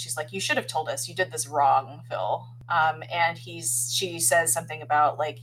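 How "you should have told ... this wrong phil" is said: usual speaking voice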